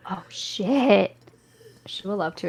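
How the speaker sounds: hushed and startled; awed whisper. Real, not acted. Player reacting to the divine presence in a whisper. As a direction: whisper in awe.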